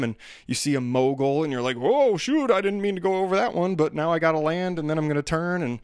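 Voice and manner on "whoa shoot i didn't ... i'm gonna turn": high, startled yelp easing down; acted alarm. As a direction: play a skier caught off guard. Acting out skier surprised by mogul.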